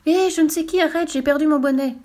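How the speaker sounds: high, loud shout to stop; calling out. Acted. Fool yelling to the voice while flying, loud call. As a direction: yell after the lost hat.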